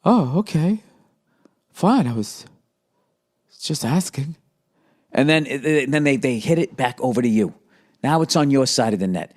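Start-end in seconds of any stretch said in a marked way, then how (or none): 0.0-4.4 lightly voiced hurt wife; a touch of wounded sulk; imitating the wife's sulky reply, a little higher; mock offended wife. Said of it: "You get".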